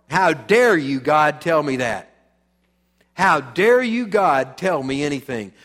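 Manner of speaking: loud, outraged challenge flung at God; indignant defiance. Acted. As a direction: play the rebel who won't be told no. Mock defiant sinner shouting at God.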